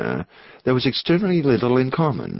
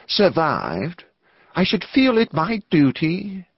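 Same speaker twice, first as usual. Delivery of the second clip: careful, slightly nervous clergyman; hesitate, then lift into earnest duty; hesitant resolve; 8 semitones higher, slower than usual. A narrator's reading. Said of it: "he hesitated, characteristically".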